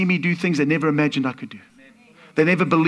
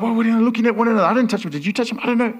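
higher, quick overlapping bystander chatter; lightly acted confused crowd; 5 semitones higher, faster than usual. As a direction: lightly mimic a baffled crowd denying it. Acting out the confused crowd's reaction.

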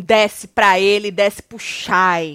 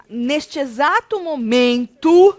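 slow, drawn-out mock of Irã's sing-song; lightly mocking drawl; mock Irã intonation; 4 semitones higher, 6 dB louder, much slower than usual. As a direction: imitate his slow way of talking. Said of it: "ranço da entonação de Irã".

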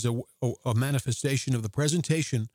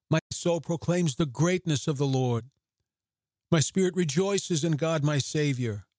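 a touch more lift, joyful proclamation; mild excitement, Mary beside herself with joy; 2 semitones higher than usual. Shown as a demonstration. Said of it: "I see her saying this with great excitement".

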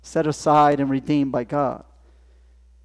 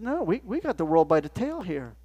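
boasting Peter; 5 semitones higher than usual. Acted.

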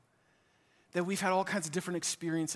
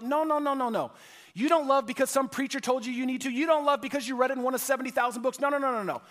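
emphatic preaching; 7 semitones higher, 4 dB louder than usual. Acted. Preacher rejecting duty as motive.

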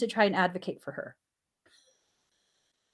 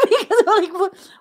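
higher and louder, breaking into laughter; laughing; 12 semitones higher, 12 dB louder than usual. Real, not acted. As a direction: laugh as you get the words out. Laughing at son's remark.

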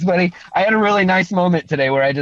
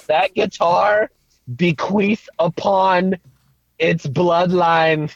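slow, grand proclamation, a little higher; regal and cool; 4 semitones higher, much slower than usual. Acted. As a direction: declare it like a king bequeathing land. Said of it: "I'm trying to sound regal and cool right now".

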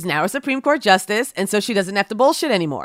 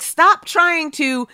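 scolding; 4 semitones higher than usual. Pretend. Scolding Barrett directly.

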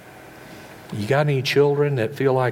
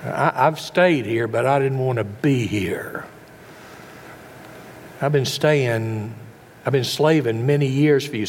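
building resentment. Retold or imitated. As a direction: let the grudge boil over at the old man. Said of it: "You hear the anger in his voice?".

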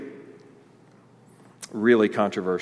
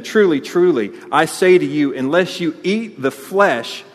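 louder, declaiming Jesus; preacher reading Jesus' words with force; solemn proclamation; 3 semitones higher, 5 dB louder than usual. Acted. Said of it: "So Jesus said to them".

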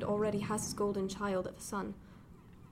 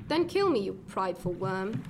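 furious challenge. Acted. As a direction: hurl the dare at him. Heated quarrel with Robert.

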